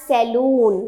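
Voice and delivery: "saloon" with a long oo; mispronunciation demo. Shown as a demonstration. Teacher reading it as written, mispronunciation demo. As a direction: say "saloon" to rhyme with moon. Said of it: "ये सैलून नहीं है".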